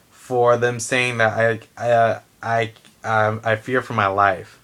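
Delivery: stumbling, repeating the first word; stuttering. Real, not acted. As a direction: trip over the words. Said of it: "Sorry for the stuttering".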